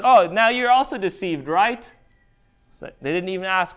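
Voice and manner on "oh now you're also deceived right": mocking accusation. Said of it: "That's what the Pharisees did to these officers".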